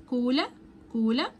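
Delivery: كولا with a hard k at the start. Shown as a demonstration. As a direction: model كولا with a clean k. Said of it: "السي هنا بتتنطق بالساوند الكي". (كولا بصوت الكاف)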